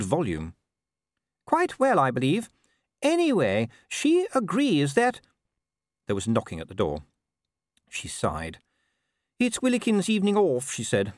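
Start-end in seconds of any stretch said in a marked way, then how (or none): 1.4-5.2 high-pitched wife pressing on; chatty wife, pitched well up; Sybil. A narrator's reading. Voicing Sybil in conversation. 9.4-10.7 high-pitched, resigned wife; lilting wife, pitched up; Sybil. A narrator's reading. Voicing Sybil after a sigh.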